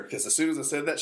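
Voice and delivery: usual speaking voice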